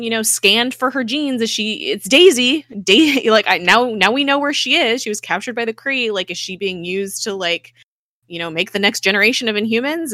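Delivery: worked-up retelling of a character; urgent confrontation. Retold or imitated. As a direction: pour it out in agitated realization.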